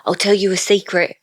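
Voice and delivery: put-on English accent; mock English accent, prompting a friend. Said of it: "So do that accent".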